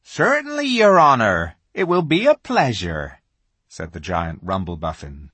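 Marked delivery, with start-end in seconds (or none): 0.0-3.2 addressing royalty. Acted. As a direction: humbly answer the great lion. Giant answers Aslan humbly.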